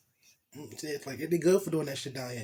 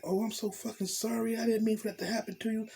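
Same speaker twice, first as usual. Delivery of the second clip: voicing the woman higher, scolding and worried; a lightly voiced, higher fretful woman; girl's worried voice; 5 semitones higher than usual. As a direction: play the anxious girlfriend fussing over him. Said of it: "She's like".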